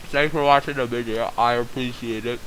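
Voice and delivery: talking with a toothbrush in; while brushing teeth. Real, not acted. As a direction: mouth full of toothpaste. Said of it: "I'm recording this while I'm brushing my teeth".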